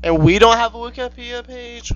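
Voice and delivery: high, rising incredulous whine; indignant disbelief. Real, not acted. Co-host jealous of the Wikipedia page, high indignant question. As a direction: protest it with pitch climbing up.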